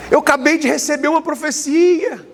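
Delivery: woman in tears begging the pastor to pray; imitating a sobbing caller. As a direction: mimic a frightened woman crying on the phone. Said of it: "chorando, aos prantos".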